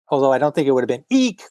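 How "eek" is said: mild high eek. Shown as a demonstration. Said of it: "that doesn't really sound too, uh, surprising".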